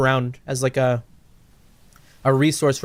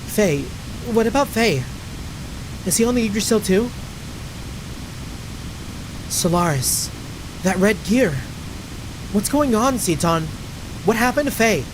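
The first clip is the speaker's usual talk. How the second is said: lightly voiced anxious questioner, pitched up; a hint of higher-pitched alarm; worried game heroine; 4 semitones higher than usual. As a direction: press for news of a missing friend, voice higher. Voices worried figure questioning Citan.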